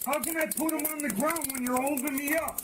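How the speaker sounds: angry protest. Real, not acted. Suspect arguing while being tased.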